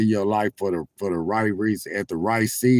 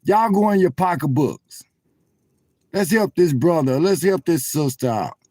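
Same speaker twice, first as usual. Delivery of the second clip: loud, high preacher's call to give; rally the church like an old school preacher; preacher calling for offering; 6 semitones higher, 3 dB louder than usual. Retold or imitated. Preacher urging the congregation to give, raised up. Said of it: "he say".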